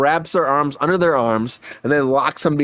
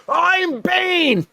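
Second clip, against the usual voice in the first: much higher hammed-up Bane cry. Tom Hardy in costume announcing himself, hammed-up Bane. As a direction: announce yourself as the villain.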